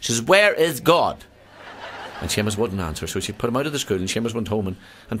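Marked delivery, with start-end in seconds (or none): 0.2-1.2 high, slow and loud; slow loud demand. Acted. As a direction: drag each word out, exasperated. Teacher asks a third time.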